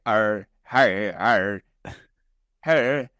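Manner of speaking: awkward mumbling hick greeting; nervous bumpkin saying hey to a girl; nervous grunting. Retold or imitated. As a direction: stammer a shy hello like a clumsy country boy. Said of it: "he gets really nervous".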